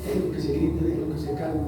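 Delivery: soft, calm voice of God letting it pass; calm patient God. Acted. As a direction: say it softly, unbothered. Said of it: "Dios dice".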